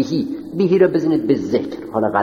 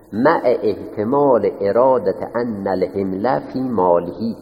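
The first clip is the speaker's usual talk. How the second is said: Arabic text read slowly, word by word; slow dictation; 3 semitones lower, slower than usual. Shown as a demonstration. Teacher dictating Arabic text to students, slow and deliberate. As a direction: read it out slowly so they can write. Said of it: "بالای مع باید".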